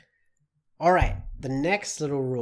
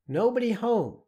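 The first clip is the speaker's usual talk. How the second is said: repeated example; 8 semitones higher than usual. Shown as a demonstration.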